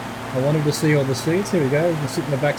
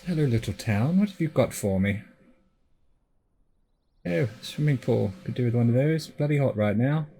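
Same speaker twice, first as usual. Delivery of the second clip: playful put-on English accent; a light English accent chatting to a little town. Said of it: "Know why I'm speaking with an English accent?".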